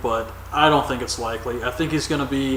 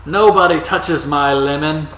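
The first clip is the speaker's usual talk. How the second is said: put-on terrible British accent; 4 dB louder than usual. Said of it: "I know I do a terrible British accent".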